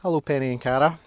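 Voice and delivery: loud, sing-song greeting to dogs. Real, not acted. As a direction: greet each dog sweetly.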